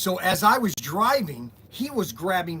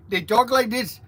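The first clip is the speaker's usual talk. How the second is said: put-on broken-English accent, a little higher; mock scammer accent; 4 semitones higher, 3 dB louder than usual. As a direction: imitate a foreign phone scammer. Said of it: "no idea how to speak English".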